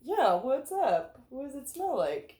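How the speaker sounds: high sweet pet talk; talking to the dog. Real, not acted. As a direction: coo at the dog.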